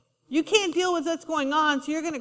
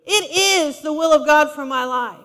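bold declaration; 6 dB louder than usual. Shown as a demonstration. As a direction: declare it boldly against the enemy. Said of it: "get on the attack and say".

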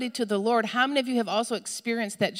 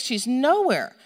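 ordinary talk, nothing marked

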